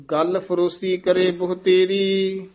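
ਗੱਲ with short vowel and firm double ਲ; tight ਗੱਲ. Shown as a demonstration. Teacher showing students ਗੱਲ spoken tight. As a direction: press the ਲ in ਗੱਲ. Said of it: "ਗੱਲ ਪਦ ਜਿਹੜਾ ਨਾ ਕਸ ਕੇ ਬੋਲਣਾ".

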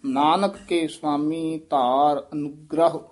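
ਅਨੁਗ੍ਰਹ gripped on the gr; careful model line ending in a firm ਅਨੁਗ੍ਰਹ; tight pronunciation. Shown as a demonstration. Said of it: "ਕਸ ਕੇ ਹੀ ਉਚਾਰਨ".

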